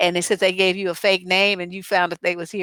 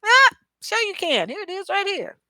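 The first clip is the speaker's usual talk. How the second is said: much higher, sing-song fake sure; sweetly fake agreement; 12 semitones higher, slower than usual. Giving Jamaican men a fake number, higher and sing-song. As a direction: play the sweet girl handing out a fake number. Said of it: "They're like".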